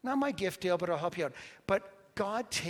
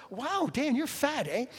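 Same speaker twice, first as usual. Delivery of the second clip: put-on the teen's blunt line, much higher and through laughter; laughing retelling; 9 semitones higher than usual. Pastor retelling the beach teen, laughing high through it. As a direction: quote him while still cracking up. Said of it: "He goes".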